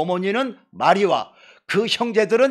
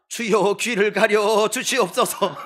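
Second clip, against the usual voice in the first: mock prayer; 3 semitones higher, slower than usual.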